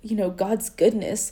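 choked up mid-sentence, pushing through; emotional, voice catching on God's goodness; tearing up. Real, not acted. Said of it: "I don't know why I'm tearing up".

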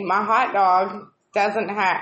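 slow polite request; kindly. Retold or imitated. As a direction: ask gently and politely. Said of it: "I kindly say".

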